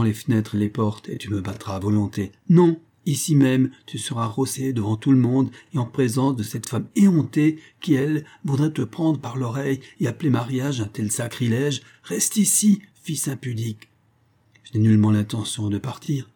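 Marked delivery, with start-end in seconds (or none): 2.5-13.9 angry mother. Acted. Mother scolds her son before everyone, furious. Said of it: "de telles lueurs de colère".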